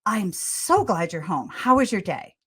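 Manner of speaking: tulus dan hangat menyambut suami pulang; glad greeting. Shown as a demonstration. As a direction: sapa suami dengan senyum yang terdengar. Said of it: "looked at him and said".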